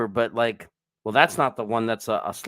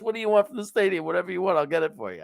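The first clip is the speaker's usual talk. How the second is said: eager waiter; 7 semitones higher, faster than usual. Retold or imitated. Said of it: "he goes".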